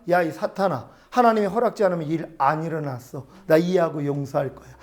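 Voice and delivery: low, softened retold prayer; calm forgiving resolve. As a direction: talk yourself down, then quietly bless. Retold forgiving prayer replacing anger.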